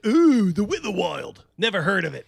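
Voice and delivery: hammed-up fake interest; mock intrigue. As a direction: feign interest then dismiss. Mock reaction.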